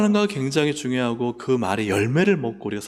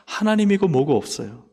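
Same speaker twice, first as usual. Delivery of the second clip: usual speaking voice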